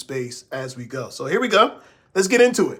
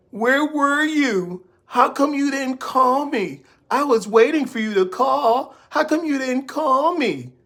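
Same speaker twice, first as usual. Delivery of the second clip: high, nagging mother scolding; nagging like his mama; 9 semitones higher, 3 dB louder than usual. Retold or imitated. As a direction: scold him like a fussy mom. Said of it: "acting like his mama".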